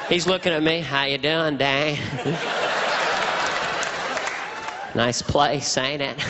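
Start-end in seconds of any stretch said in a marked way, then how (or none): 0.8-2.0 exaggerated drawling presidential voice; casual, folksy president greeting a guest; George Bush impression. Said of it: "My George Bush impression was". 4.9-6.2 exaggerated drawling presidential voice; casual, folksy president greeting a guest; George Bush impression. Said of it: "My George Bush impression was".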